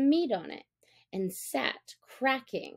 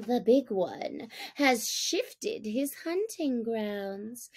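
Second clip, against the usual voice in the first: spiteful; 4 semitones higher, slower than usual. Acted. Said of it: "he said spitefully".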